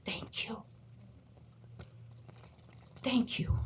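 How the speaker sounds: a whispered, breaking thank you; choked with emotion; tearful thanks. Retold or imitated. Student in a wheelchair thanking his teacher, whispered and tearful.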